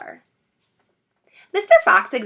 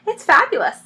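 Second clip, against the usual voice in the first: high, loud breathless rapture; breathless delight; 10 semitones higher, 6 dB louder than usual. Acted. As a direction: gush it out, short of breath. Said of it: "fighting for breath".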